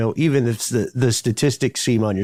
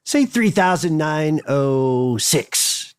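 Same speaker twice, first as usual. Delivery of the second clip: slow, deliberate numbers; slow emphatic; 5 semitones higher, much slower than usual. Shown as a demonstration. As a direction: spell it out slowly. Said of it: "slow emphatic example".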